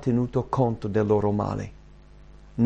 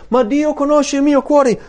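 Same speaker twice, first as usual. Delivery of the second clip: much higher, whiny protest; mock self-justifier; 13 semitones higher, 5 dB louder than usual. Preacher mimicking a believer excusing himself, high and whiny. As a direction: play the smug excuse-maker.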